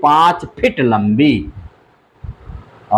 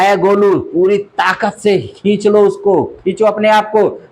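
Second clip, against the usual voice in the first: urgent urging; 5 semitones higher than usual. Acted. Python urging Golu to pull.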